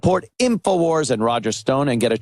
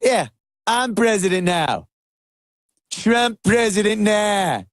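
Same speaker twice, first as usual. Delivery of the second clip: imitating Trump; 3 semitones higher than usual. Host imitating Trump telling Australian PM he is president now, gruff boasting. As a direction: bark it out like a gruff big boss. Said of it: "he's just like".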